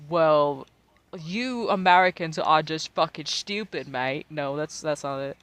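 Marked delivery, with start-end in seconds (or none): 0.1-4.3 mock British. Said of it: "before you hit me with the whole".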